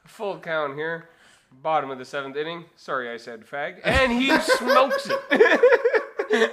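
baseball voice. Acted. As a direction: build to a drawn-out announcer's cry. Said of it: "such a baseball voice".

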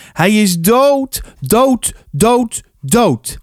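high, drawn-out agitated cry; loud outburst. A narrator's reading. Arie shoots upright when asked about his father, loud agitated outburst. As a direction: blurt it out high, repeating the word insistently. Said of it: "Hij zei het nogal hard".

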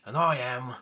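slow, lightly voiced Ross Kemp; a hint of gruff Ross Kemp; Ross Kemp impression. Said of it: "Played by Ross Kemp".

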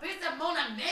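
loud, high Southern-accented fake French; laughing Southern tourist voice. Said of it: "he was like".

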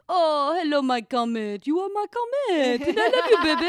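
high, loud pterodactyl-like cooing; dog-talk voice. Shown as a demonstration. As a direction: gush shrilly at a beloved dog. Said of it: "when I talk to him".

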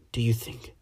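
breathless frightened whisper. A narrator's reading. Clarice to Mister Archelaus, whispering in horror. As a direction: whisper it as if afraid to be overheard. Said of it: "she whispered".

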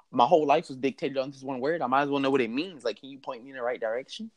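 acted desperate appeal; exasperated pleading. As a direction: plead fast, words tumbling out. Michael pleads for a clue.

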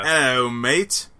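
slow mock Aussie greeting; a light Aussie drawl; Australian accent.

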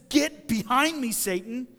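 acted stern rebuke, hit the opening hard; explosive rebuke. Preacher as Jesus rebuking Peter, explosive. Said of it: "he has this explosive rebuke".

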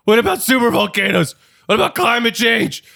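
high, loud panicky worrying; anxious worrier. Retold or imitated. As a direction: rattle off worries in a frantic high voice. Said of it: "They're like".

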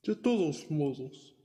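slow, sly devil dragon; friendly dragon voice. Acted. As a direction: tempt them slowly, like a dragon. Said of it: "dijo el dragón".

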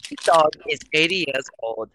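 put-on German accent; lightly hammed German accent; mock German accent. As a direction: say it like a game character with a German accent. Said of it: "went off of the accent from".

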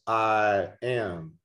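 I AM drawn out as two weighty words; emphatic I AM. Shown as a demonstration. Preacher quoting scripture to the congregation, emphatic I AM. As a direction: give both words of "I am" full, capital-letter weight. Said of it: "all capital".

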